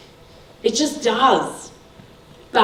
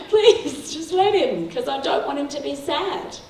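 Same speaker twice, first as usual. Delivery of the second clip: mock pleading; 6 semitones higher than usual. Pleading with teacher, retold.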